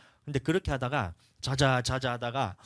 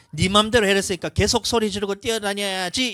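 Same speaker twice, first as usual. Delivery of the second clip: put-on higher, louder gleeful child; excited kid; 7 semitones higher, 5 dB louder than usual. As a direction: kid taking it as a free pass. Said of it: "엄마가".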